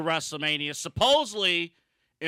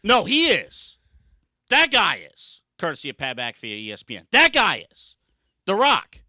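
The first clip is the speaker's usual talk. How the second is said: louder, emphatic call-out; angry; 3 semitones lower, 5 dB louder than usual. Real, not acted. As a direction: point the finger hard. Ranting about The Rock.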